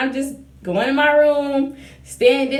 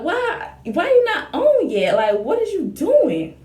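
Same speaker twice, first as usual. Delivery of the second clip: mock despair; 6 semitones higher than usual. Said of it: "getting so depressed".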